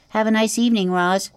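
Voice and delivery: high squeaky little opossum. Acted. Opossum answering the robot in a high squeaky voice.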